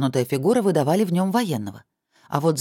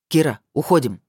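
commanding; 4 dB louder than usual. Acted. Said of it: "приказал Михаэль".

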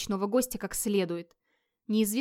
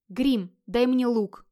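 loud, slow, commanding call; slow, insistent order; firm demand; 3 semitones higher, 5 dB louder, much slower than usual. Acted. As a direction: demand it forcefully, drawing out the words. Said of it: "и потребовал".

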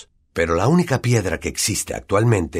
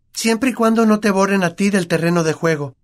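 high, dry teasing quip; a wry jab; 13 semitones higher, 4 dB louder than usual. Acted. Hermione teases Harry. (Hermione burlona)

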